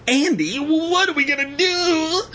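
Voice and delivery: high, panicky stammer; panicked stammer. A narrator's reading. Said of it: "he stammered".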